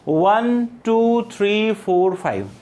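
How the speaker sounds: slow counting, one beat each; counting syllables. Shown as a demonstration. Teacher counting syllables aloud for the class. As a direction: count टू, थ्री, फोर, फाइव out like a teacher. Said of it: "कितने syllable हो गए".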